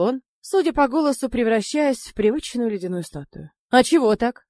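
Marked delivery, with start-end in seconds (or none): 3.7-4.4 louder, hammed-up surprise; mock astonishment. A narrator's reading. Gnome teasing Sanya, feigning astonishment. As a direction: fake being amazed, overplaying it. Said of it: "наигранно изумился гном".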